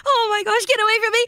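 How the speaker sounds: high, panicked shriek to get away; frightened cry. Acted. Bird fleeing the predator, high frightened shouts. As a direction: scream at the attacker to back off.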